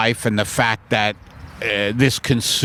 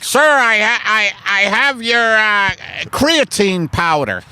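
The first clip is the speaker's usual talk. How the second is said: high, stammering courier; hesitant, high-voiced announcement through the door; nervous delivery person; 9 semitones higher than usual. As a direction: play a rattled delivery worker.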